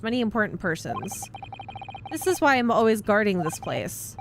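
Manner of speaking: proud guard in a put-on Russian accent. Stroganov showing off the first class area, in a Russian accent. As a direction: boast about the VIP cabins like a Russian sailor.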